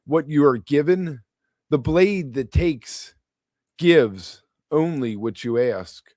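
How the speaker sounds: measured poem recital with pauses between phrases; deliberate, phrase-by-phrase poetry delivery; poetry reading. Acted. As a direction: read it as verse, pausing on each image. Reads own poem aloud.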